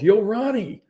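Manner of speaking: high called-out greeting; shouting a friend's name; retold yell. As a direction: call across the hall to a friend. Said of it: "Hopper yells".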